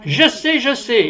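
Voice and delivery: high, eager blurt with a touch of a laugh; eager shout. Retold or imitated. Woman insisting to the speaker, high and eager. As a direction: play the woman who can't contain herself. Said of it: "Et elle me dit".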